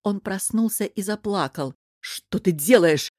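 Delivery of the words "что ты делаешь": slow, loud indignation; outraged at the baby being shoved; indignant. Acted. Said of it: "возмутился Шамир". (возмущённо и громко)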